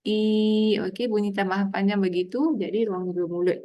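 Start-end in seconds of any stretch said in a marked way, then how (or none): 0.1-0.8 "i" held long through a smile; a drawn-out, smiling "i". Shown as a demonstration. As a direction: spread the lips and stretch the "i".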